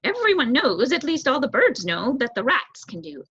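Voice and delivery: high, fast, fretful bird voice; anxious young crow. Acted. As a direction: hurry like a nervous youngster. Crow confident reply.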